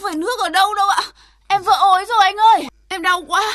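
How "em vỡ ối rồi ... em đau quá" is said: pained labour moan. Acted. Woman tells her water broke.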